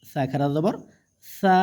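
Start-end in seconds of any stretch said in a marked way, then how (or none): 1.2-1.6 long, steadily held vowel; drawn-out vowel. Shown as a demonstration. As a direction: stretch the vowel out evenly. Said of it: "টেনে পড়তে হবে". (টেনে পড়া, লম্বা স্বর)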